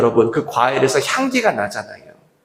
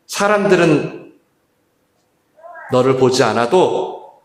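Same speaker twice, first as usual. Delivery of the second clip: tender reassurance; 5 semitones lower than usual. Acted. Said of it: "그때 예수님이 말씀하시는 거예요".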